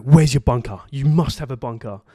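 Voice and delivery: insistent dad demanding; firm dad taking charge; dad mode. Retold or imitated. Dad in dad mode demands the hotel bunker, insistent. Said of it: "he goes like".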